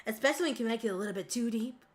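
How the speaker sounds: deep, easygoing country twang; country accent. Shown as a demonstration. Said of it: "Having a country accent like this".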